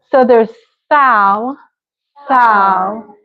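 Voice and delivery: SAL said alone as salad's first syllable; broken into syllables. Shown as a demonstration. Teacher models salad's first syllable, syllable by syllable. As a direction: sound out "sal" slowly and separately. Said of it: "don't say the second one".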